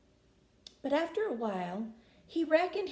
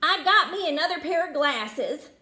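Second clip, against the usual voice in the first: murmured; 4 semitones higher, 7 dB louder than usual. Acted. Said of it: "murmured Pablo".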